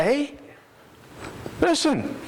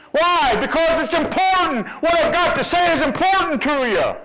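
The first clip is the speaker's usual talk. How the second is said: raised, ringing pulpit voice; preaching shout; 5 semitones higher than usual. Real, not acted. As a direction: drive home why it matters. Preacher stressing importance of hearkening.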